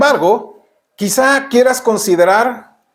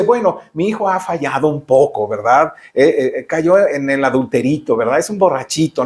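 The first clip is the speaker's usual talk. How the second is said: mock lenient excuse; 5 semitones lower than usual. God wrongly excusing a sinner, mock gentle indulgence. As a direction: soften the sin like a doting parent. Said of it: "No, no, Él te dice".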